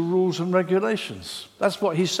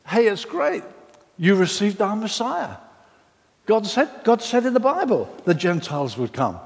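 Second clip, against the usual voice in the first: hearty mock welcome; mock welcoming Judaizers; 2 semitones higher than usual. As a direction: greet them like overeager hosts. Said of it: "they said to these Galatians".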